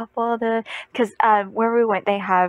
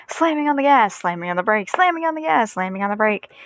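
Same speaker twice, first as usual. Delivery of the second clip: rocking back and forth like a lead-foot driver; jerky driving rhythm. Retold or imitated. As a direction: bounce between gas and brake.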